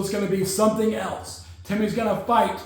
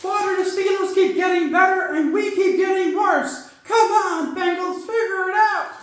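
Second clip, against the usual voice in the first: frustrated yell; 10 semitones higher than usual. Real, not acted. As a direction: shout your frustration at the team. Frustrated fan yelling at team.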